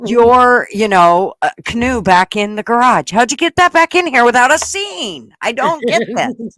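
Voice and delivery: high, loud exasperated outburst; fed-up disbelief, voice climbing; exasperated rant. Retold or imitated. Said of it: "And it's like".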